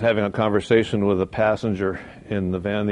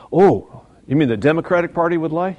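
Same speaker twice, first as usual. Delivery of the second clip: mock surprise; 4 semitones higher than usual. Mock surprise at lying party.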